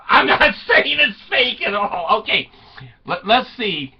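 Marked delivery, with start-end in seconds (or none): 0.1-2.2 high, laughing disclaimer. Real, not acted. Comic to audience disowning the story, laughing. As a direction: say it through your own laughter.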